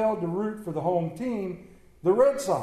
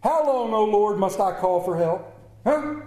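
pleading complaint; 4 semitones higher than usual. Acted. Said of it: "reread it in a little bit better vernacular".

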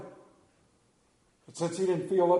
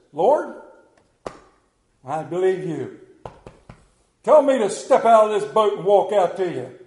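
Peter calling out; 8 dB louder than usual. Acted.

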